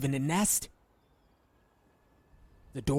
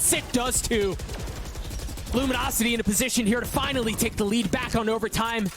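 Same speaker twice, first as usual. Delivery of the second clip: excited; 8 semitones higher than usual. Real, not acted. Caster hypes a lead-taking kill.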